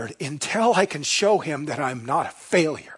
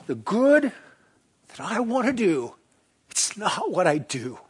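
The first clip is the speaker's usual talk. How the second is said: angry self-accusation; 7 semitones higher, 6 dB louder than usual. Shown as a demonstration. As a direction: read Paul like a man furious at himself. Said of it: "with a self-accusatory voice and anger".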